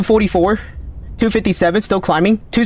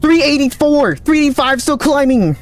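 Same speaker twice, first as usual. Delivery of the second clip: high, voice-cracking shout of readings; voice cracking excitement; 7 semitones higher than usual. Real, not acted. Streamer calling record wind speeds, voice cracking with excitement. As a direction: call the numbers so excited the voice breaks. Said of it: "Oh, my voice crack".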